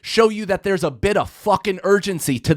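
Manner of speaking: very high comic squawk settling into a pleading rant; exasperated caller. Retold or imitated. Customer to a silent clerk about urgency, exasperated. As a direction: start in high-pitched mock disbelief, then ease down.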